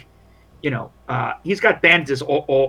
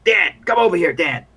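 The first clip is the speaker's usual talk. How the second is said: calling over; 3 semitones higher, 5 dB louder than usual. Acted. Soldier to the other guy, calling him over. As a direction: call a mate across to you. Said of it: "he calls over".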